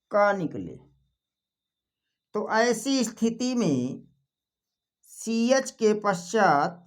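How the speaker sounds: slow, measured reading of a rule. Acted. Teacher stating a grammar exception to students, slow rule reading. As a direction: read it out slowly, stretching the phrases.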